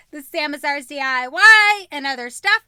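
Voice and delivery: loud, panting host intro; out of breath. Real, not acted. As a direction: gasp through the intro words. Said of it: "I am way out of breath".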